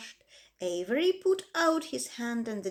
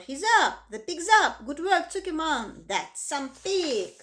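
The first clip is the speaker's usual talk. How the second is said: higher and louder joyful cheers; excited cheering; 6 semitones higher, 4 dB louder than usual. A narrator's reading. The crowd cheering Zuckerman and his pig, excited shouts.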